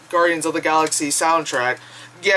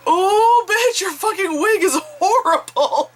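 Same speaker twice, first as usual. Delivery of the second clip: blurted mock outburst; 12 semitones higher, slower than usual. Vlogger recalls heckling Black Cat's terrible wig, blurted mock outburst. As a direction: let a catty exclamation burst out, pitched way up. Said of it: "immediately out of my mouth, I just went".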